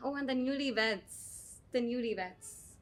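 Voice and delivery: slow, drawn-out exasperation; drawn-out disdain. Acted. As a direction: stretch out the words with weary scorn. Recalls the irritating newlyweds with disdain.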